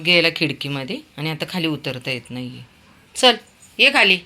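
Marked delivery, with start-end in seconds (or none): 3.2-4.2 high, loud call to come down. Real, not acted. Calling Veer down from the window, loud and high. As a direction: call him down sharply from above.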